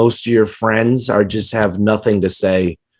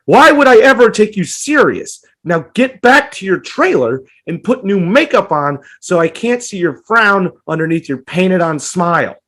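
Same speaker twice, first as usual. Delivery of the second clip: incredulous rant; 5 semitones higher than usual. Retold or imitated. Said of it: "You'd be like".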